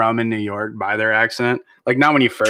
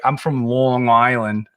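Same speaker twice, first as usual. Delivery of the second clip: mock Long Island accent; slower than usual. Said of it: "they're like".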